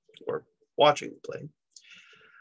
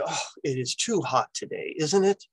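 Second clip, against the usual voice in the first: mock complaint. Shown as a demonstration. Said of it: "So I might say".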